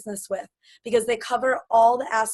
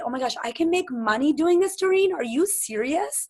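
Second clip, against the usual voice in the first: higher, excited disbelief, slowing on "Are you serious"; amazed prospect; 4 semitones higher than usual. Retold or imitated. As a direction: play a friend who can't believe it. Imagined prospect amazed about money.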